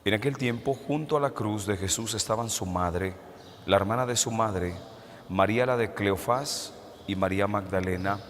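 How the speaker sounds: solemn, measured liturgical reading; gospel reading. Acted. Priest proclaims the gospel.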